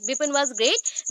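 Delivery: slow dictation. Shown as a demonstration. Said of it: "याद कर लेना ये स्टेटमेंट".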